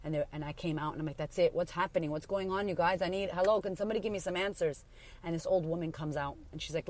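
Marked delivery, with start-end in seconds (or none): 1.2-4.8 urgent, raised-pitch plea for answers; retold frantic demand. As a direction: demand answers, words tumbling out. Demanding answers from hospital staff.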